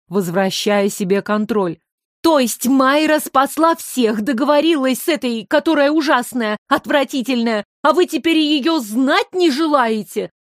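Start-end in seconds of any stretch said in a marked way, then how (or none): 2.2-10.3 put-on a girl protesting the injustice; mild indignation, raised pitch; indignant. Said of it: "возмутилась Оля".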